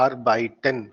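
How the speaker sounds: arbeiten slowly, in clear separate syllables; model pronunciation. Shown as a demonstration. Teacher shows the class how to say it, slow syllables. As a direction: stretch arbeiten as ar-bai-ten. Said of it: "जैसे मैं बोल रहा हूँ".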